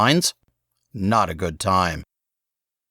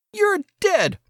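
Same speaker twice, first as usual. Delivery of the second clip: put-on high, furious kid yell; boy Saul, threatening. A narrator's reading. Saul threatens his brother, high and furious. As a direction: spit the threat like an enraged boy.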